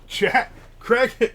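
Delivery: real call to friends nearby. Real, not acted. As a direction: call across to get his attention. Calling out to friend.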